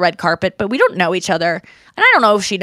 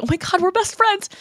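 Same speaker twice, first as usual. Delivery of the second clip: mock gushing; 10 semitones higher than usual. Playing along with touchy actress.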